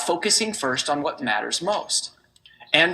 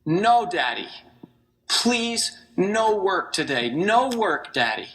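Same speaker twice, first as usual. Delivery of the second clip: mild tearful plea; slower than usual. Retold or imitated. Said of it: "her eyes well up with tears".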